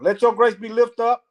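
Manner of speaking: slow, careful rereading; deliberate, unhurried reading. Real, not acted. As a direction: take the verse slowly, phrase by phrase. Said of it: "Let me slow down".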